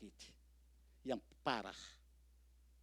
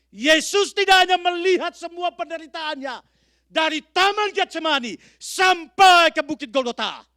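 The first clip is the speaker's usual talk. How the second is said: higher, much louder, slow and shouted; preaching shout; 28 dB louder than usual. Acted. Preacher shouting Jesus' suffering to the congregation, slow shout. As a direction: cry it out from the pulpit.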